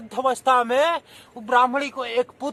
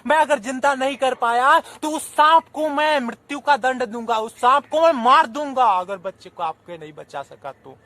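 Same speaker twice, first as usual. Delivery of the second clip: eager reassurance. Acted. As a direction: reassure the grieving mother boldly. Snake charmer reassures the mother.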